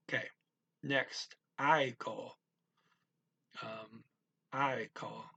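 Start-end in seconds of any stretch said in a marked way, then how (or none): 1.6-2.4 "I call" sounded out clearly as a Finnish word; enunciated. Shown as a demonstration. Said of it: "enunciate these, make 'em clear". 4.5-5.2 "I call" sounded out clearly as a Finnish word; enunciated. Shown as a demonstration. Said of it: "enunciate these, make 'em clear".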